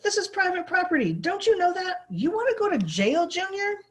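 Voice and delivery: high, loud scolding; angry foreman. A narrator's reading. Foreman threatening a boy caught trespassing, angry. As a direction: bark threats at the kid.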